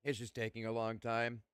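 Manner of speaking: chewing while talking; mouth full. Real, not acted. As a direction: talk through a bite of food. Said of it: "Sorry, I'm chewing".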